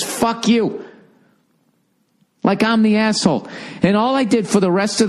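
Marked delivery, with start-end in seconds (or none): 0.0-0.8 high, put-on dismissive fuck you; woman flipping him off, lightly imitated sneer; mock rude woman. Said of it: "gives me the finger and says".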